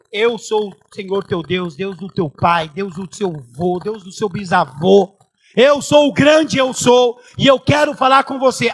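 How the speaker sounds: slow, solemn proclamation, building to loud; God announcing himself. Acted. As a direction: intone it grandly, swelling to full power. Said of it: "Quando Deus se apresentou".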